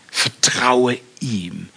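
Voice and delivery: tender plea. Real, not acted. Closing plea, very slow.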